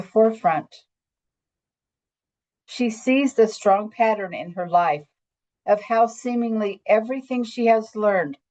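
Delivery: measured, reverent read-aloud with pauses between phrases; story narration. Acted. Woman reading her own visionary monologue as an example, measured storytelling. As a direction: read it as a heartfelt spiritual tale.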